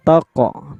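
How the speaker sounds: "taqo" with the q bounced; bouncing qalqalah. Shown as a demonstration. Teacher showing qalqalah, "taqo" with a bounced q. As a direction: let the q in "taqo" echo briefly. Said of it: "Qalqalah artinya mantul".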